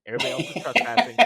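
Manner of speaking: fast, high, loud territorial outburst; mock indignant shout. Giving the demo spiel on Spain's land, mock indignant yell. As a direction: playfully holler it at intruders.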